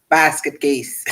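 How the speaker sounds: a slight put-on voice, punched out; Phil voice. Host shouting out Mark, lightly imitated voice. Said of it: "in my Phil voice".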